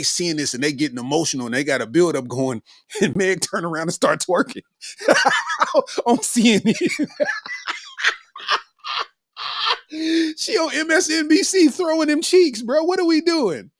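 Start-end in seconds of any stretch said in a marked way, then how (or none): 3.0-13.7 words broken by giggles; cracking up mid-sentence; laughing while talking. Real, not acted. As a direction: laugh through it, rising higher. Laughing about Megan twerking.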